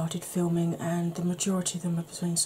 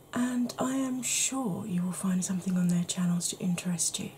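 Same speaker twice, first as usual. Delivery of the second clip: ASMR voice. Acted. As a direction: whisper it gently as if lulling someone to sleep. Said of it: "my A S M R voice".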